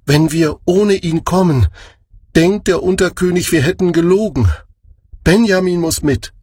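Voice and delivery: brothers insisting. A narrator's reading. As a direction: press the point gently but firmly. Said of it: "erwiderten sie".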